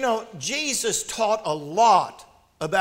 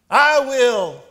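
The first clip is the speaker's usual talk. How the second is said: loud, high, eager story duck; raised, emphatic duck volunteer; quacking duck; 4 semitones higher, 9 dB louder than usual. A narrator's reading. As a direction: burst out as the duck. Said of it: "quacked the duck".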